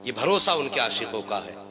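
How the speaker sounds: soft, low sermon narration; hushed storytelling. Acted. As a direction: drop the voice for the deathbed scene. Hushed sermon narration of the death scene.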